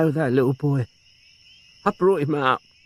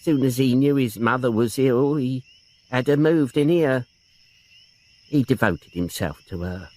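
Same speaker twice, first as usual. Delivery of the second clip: a touch of sobbing in the defence; tearful old aunt. Acted. Aunt defending her nephew to the inspector, tearfully. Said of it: "started to sob again".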